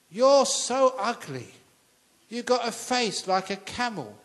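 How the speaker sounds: hammed-up bully taunting a stranger; mocking insult. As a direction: sneer it out like a street bully. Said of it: "started abusing him".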